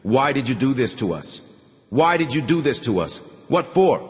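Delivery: anguished plea. Acted. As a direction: plead to know why.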